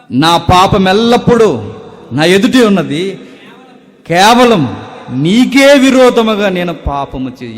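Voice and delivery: loud, high, impassioned sermon voice; fervent preaching. Acted. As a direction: proclaim the psalm to the whole church. Preaching a psalm at full force.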